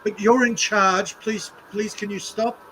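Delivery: a high, slow mock plea; hammed-up pleading; mock begging. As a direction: beg the boss to please stop. Mocking pleading protesters.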